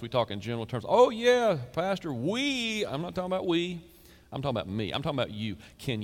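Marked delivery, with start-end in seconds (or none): 0.9-2.8 high, breezy dodge; mock churchgoer. Pastor mimicking a vague congregant, breezy high deflection. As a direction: brush it off like a congregant. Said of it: "we start talking like this".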